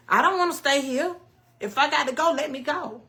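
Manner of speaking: high, forceful retold protest; retold anger. Patient recalling wanting to go, retold angry protest. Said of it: "I was pissed off".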